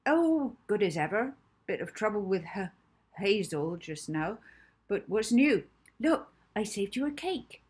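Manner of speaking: high-pitched, stammering motherly cook; a plump, fussing woman tripping over her words; stammering Mrs Trinklebury. Acted. Mrs Trinklebury chats to Molly.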